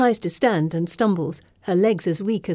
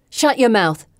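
warning; 3 semitones higher, 5 dB louder than usual. Acted. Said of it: "May warns".

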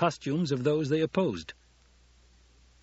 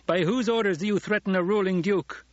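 high, raised, indignant demand; called-out challenge; 9 semitones higher, 4 dB louder than usual. A narrator's reading. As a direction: challenge them across the chamber. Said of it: "Paul called to the remaining group".

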